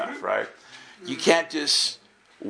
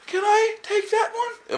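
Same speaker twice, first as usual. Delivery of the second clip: hopeful inner question; slower than usual. Retold or imitated. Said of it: "I'm thinking".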